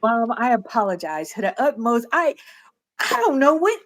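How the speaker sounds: put-on high, squeaky child voice pleading with mom; sheepish kid apology. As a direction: squeak out a guilty apology to mom, half laughing. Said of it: "we be like".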